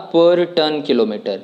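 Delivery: very slow, each word spelled out for students; key phrase stressed. Shown as a demonstration. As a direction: lay out per ton kilometer word by word. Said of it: "क्या कहा था?". (per ton kilometer को बहुत धीरे, एक-एक शब्द पर ज़ोर देकर)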